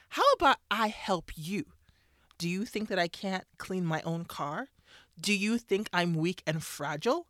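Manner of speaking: a touch of offended pushback, not full anger; indignant eye-roll. Retold or imitated. Wife retorting to her husband's offer, mildly indignant. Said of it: "I would have rolled my eyes and said".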